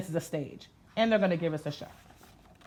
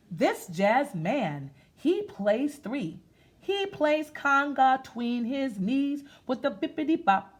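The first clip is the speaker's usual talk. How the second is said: put-on reading to children; 2 semitones higher, slower than usual. Reads the picture book aloud.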